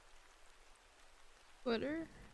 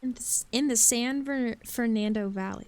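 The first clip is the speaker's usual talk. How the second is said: talking through a yawn; words stretched by a yawn. Real, not acted. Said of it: "yawned in the middle of that".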